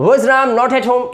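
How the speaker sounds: Was राम not at home spoken slowly, word by word; teacher's slow demo; slow model sentence. Shown as a demonstration. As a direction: lay out each word slowly for learners. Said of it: "इस तरह से बोलना है".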